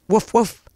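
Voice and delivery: mock woofs; light spoken imitation of a dog; playful dog bark. Host thanking dog patrons on air, playful woofing.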